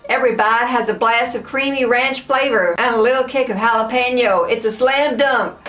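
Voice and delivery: badly attempted American accent for ad copy; terrible American accent. Shown as a demonstration. Taste tester keeps reading the chip bag in a poor American accent. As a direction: try and fail at sounding American. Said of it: "I can't do accents".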